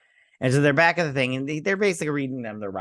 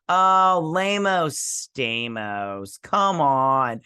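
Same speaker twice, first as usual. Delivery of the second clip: mocking scoff; 2 semitones higher, 4 dB louder, much slower than usual. Real, not acted. Mocking the show's dramatic line.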